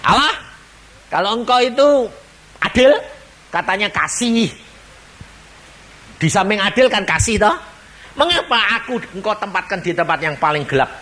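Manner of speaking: high pleading protest to God; crying out to God. Acted. Sinner in darkness cries out to God, high and pleading. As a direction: cry up at heaven, demanding fairness. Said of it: "dia teriak-teriak begini".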